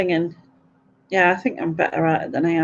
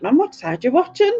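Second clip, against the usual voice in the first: higher, laughing exasperation; exasperated question; 9 semitones higher than usual. Retold or imitated. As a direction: ask it half laughing, fed up. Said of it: "And I'm like".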